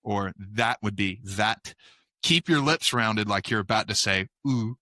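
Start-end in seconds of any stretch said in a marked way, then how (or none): 0.4-0.8 "that" starting on a Z. Shown as a demonstration. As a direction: say "that" as zat, slowly. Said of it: "like Z or S".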